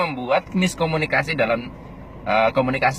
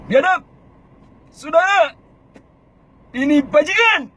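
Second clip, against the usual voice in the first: much higher, louder rabble-rousing cry; high provoking shout; 11 semitones higher, 4 dB louder than usual. Shown as a demonstration. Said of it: "itu pakai kata-kata tinggi".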